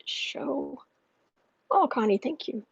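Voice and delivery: hushed whisper over a cute photo. Real, not acted. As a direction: whisper it fondly. Whispered cooing at pet photo.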